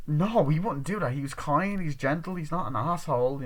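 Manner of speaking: mock defensive protest. Girl defends her kind, gentle boyfriend, mock protest. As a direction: protest his innocence in imitation.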